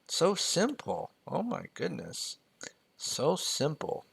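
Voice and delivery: high, soft, drawn-out mock Asian accent; imitation Asian accent in a high, light voice. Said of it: "I kinda wanna do the Asian accent".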